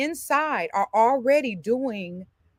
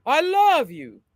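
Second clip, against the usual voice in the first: yawned speech; 5 semitones higher, 4 dB louder, slower than usual. Shown as a demonstration. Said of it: "Yawn first".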